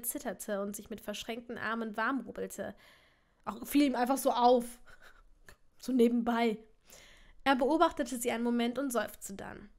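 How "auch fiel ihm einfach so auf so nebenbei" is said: laughing aside to the listeners; louder, amused interjection. Real, not acted. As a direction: break off and comment with a laugh. Reader's amused aside at the text.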